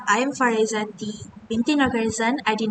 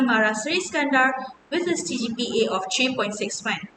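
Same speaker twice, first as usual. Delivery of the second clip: formal campaign speech; faster than usual. Acted. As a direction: speak to fellow students like a candidate. Delivers her campaign speech.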